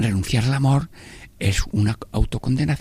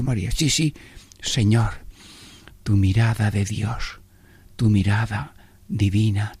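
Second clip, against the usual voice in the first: fervent prayer. Acted. Prays aloud to Christ crucified.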